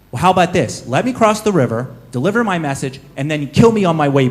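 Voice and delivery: lightly voiced clever novice making an offer; mild pleading push; novice bargaining.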